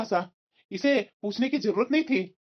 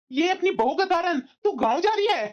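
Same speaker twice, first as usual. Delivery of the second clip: higher-pitched disbelieving challenge; indignant protest; 5 semitones higher than usual. Acted. Son to mother leaving for the village, indignant protest. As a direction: object hotly.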